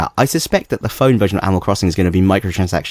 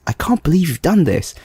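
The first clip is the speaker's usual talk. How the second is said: imitating a British accent, pitched up; imitated British accent; 6 semitones higher than usual. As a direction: quote him in a higher British accent. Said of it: "he's got this British accent".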